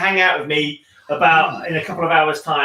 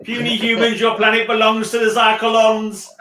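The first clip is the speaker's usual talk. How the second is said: higher, slower arrogant alien overlord; booming arrogant alien overlord; 5 semitones higher, slower than usual. Pretend. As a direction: gloat like a hammed-up alien conqueror. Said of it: "Mister Man Cave's a lizard person".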